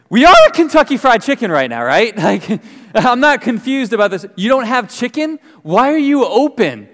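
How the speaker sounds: high, loud comic indignation; incredulous customer. Retold or imitated. Customer told the chicken shop has no chicken, incredulous. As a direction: protest in exasperated disbelief, playing it for laughs. Acts out baffled customer at KFC.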